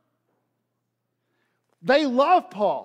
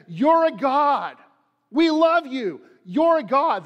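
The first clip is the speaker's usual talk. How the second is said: raised, emphatic voice of an adoring crowd; 4 semitones higher, 3 dB louder than usual. Acted. Crowd responds to Paul's miracle, adoring and emphatic. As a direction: play worshippers hailing a god.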